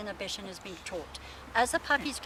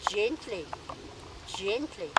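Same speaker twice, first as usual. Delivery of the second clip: soft coaxing cue; slower than usual. Shown as a demonstration. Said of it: "cueing the dog softly".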